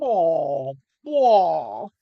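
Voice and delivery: long, loud "oh" of dismay; drawn-out cry of dismay; loud dismayed groan. Real, not acted. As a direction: groan loudly at the spill. Wine spilled over the desk.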